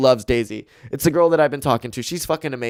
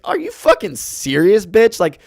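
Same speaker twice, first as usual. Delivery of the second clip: mock-furious at a fiancée; ranting at the ring-keeper; indignant rant; 6 semitones higher than usual. Real, not acted.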